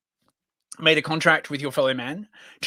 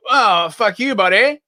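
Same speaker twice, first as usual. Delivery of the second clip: higher-pitched mock American quarrel; bad US accent; 4 semitones higher, 3 dB louder, slower than usual. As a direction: grumble back in a rough American accent. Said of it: "crap U S accent".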